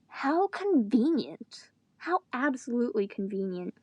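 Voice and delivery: slow, dry sarcasm; sarcastic. Real, not acted. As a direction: drag it out, mocking the plot. Sarcastic aside on the plot.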